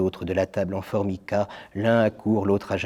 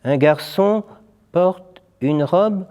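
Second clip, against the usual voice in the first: fat lady; 8 semitones higher, 4 dB louder, slower than usual. Acted. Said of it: "dit la grosse dame".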